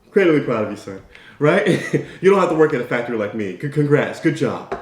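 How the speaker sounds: lightly voiced proud father; a hint of a working-class dad beaming. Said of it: "Dad goes".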